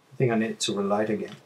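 talking around pipe stem; pipe in mouth. Real, not acted. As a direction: lips clamped on stem. Seen 0: Pipe held at chin first, stem between lips from 0.8s onward.

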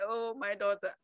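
low, soft fatherly voice; God speaking. Retold or imitated. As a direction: answer gently from deep and quiet. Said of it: "He said".

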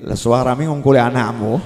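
low acted aside; husband's inner grumble. Praying husband silently remarking on his wife's noise, low grumble. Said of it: "Suaminya sholat batin".

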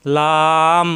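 "লাম" light and unthickened, held long; natural lam. Shown as a demonstration. Teacher modelling the letter, "লাম" natural and drawn out. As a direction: stretch "লাম" evenly with a plain l. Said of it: "স্বাভাবিক উচ্চারণ".

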